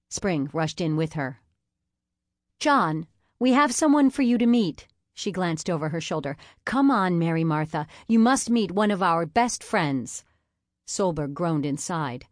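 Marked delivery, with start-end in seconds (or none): 2.6-10.2 eager introduction. Acted. Katie introducing her guest.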